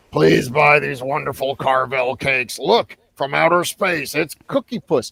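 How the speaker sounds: put-on harsh, gravelly rasp like gargled razor blades. Recalling how the ice cream store owner would come on: Tom Carvel impression. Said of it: "a voice that sounded like he gargled with razor blades".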